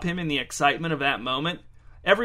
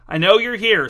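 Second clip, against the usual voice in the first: raised, louder stern voice; stern announcement; 5 semitones higher, 8 dB louder than usual. A narrator's reading. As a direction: announce it firmly to the whole room. Angie scolds hidden party guests.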